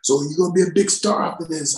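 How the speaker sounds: high, quick director impression; director hyping him. Director promises young actor stardom, high-pitched hype. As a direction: imitate a director pumping up his actor. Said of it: "he jumps in my face like".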